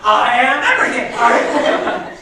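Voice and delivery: laughing at her own mistake. Real, not acted. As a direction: giggle while you talk.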